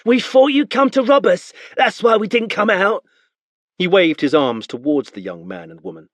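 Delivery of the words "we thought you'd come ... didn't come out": high, fearful tavern keeper begging; pleading innkeeper. Acted. Innkeeper begs the spearmen, high and frightened. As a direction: plead for your life, voice pitched up.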